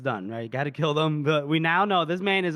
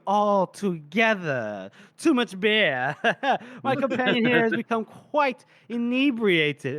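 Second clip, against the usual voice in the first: pompous excuse; 4 semitones higher, slower than usual. Retold or imitated. Morvir covering up before onlookers.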